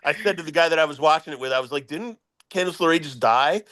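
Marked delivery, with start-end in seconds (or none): 1.9-3.6 deadpan. Retold or imitated. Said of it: "because I said it so deadpan".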